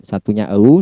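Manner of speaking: "O" said as British əu, starting central. Shown as a demonstration. Teacher contrasting British and American vowels. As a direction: give "O" the British glide from ə to u. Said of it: "ketika dia British style".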